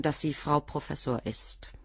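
a hushed, slow dig at the wife; sarcastic whisper. Acted. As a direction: drop to a whisper to mock her airs. Mocking the wife's pretensions.

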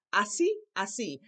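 "Así" with the voice lifted on the accented last syllable; voice goes up. Shown as a demonstration. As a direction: stress the final í of "así". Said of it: "your voice goes up".

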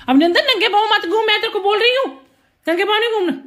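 high, loud scolding through laughter; laughing scold. Real, not acted. Mother scolding the dog for going barefoot, laughing and loud.

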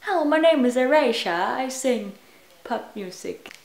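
mock announce yourself as pop star Erasure; pop star intro. Vlogger pretends eraser is pop star, mock singer intro. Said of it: "That sounds like a pop name".

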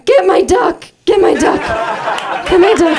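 high panicked yelling of a plea; hammed-up frantic shout for the toy; desperate yell. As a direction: shriek it like a terrified child. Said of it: "I just remember going".

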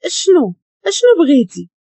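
put-on girl gasping at her attacker, frightened; scared outburst. A narrator's reading. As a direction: cry out in fear after being choked. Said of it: "بقات كتكح حيت خنقها".

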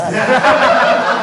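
loud burst of laughter. Real, not acted. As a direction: crack up. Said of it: "şaka yapıyorum".

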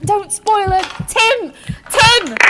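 high, loud desperate cries; frantic shouting. Acted. Patricia calling desperately for Tim, frantic shouts. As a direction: yell for Tim in panic.

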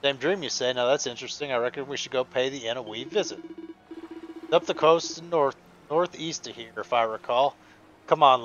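put-on light Scottish sea captain accent; a hint of a Scottish brogue, friendly. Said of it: "supposed to have, like, an extra thick accent".

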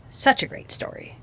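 whispered softly with pride; dad murmuring praise to his daughter. Acted. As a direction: breathe the words fondly.

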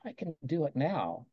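a quiet private nudge; quiet self-talk. Shown as a demonstration. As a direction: say it under your breath to yourself. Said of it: "Whisper to yourself".

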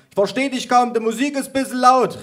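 put-on very high, loud old-lady holler; grandma calling out. A narrator's reading. Grandma who can't hear over the music, high-pitched hollering. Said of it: "rief meine Oma".

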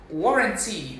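"Warranty" as WAW-run-tee; first vowel of "Warranty" like awesome; correct pronunciation. Shown as a demonstration. Diction teacher modelling warranty for the class, careful pronunciation. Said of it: "Like awesome".

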